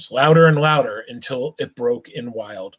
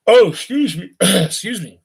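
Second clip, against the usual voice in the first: embarrassed aside; 6 semitones higher, 3 dB louder than usual. Real, not acted. Reader's aside, throat clear.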